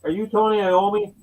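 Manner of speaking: high, eager star-struck question; a fan meeting his idol; starstruck. Retold or imitated.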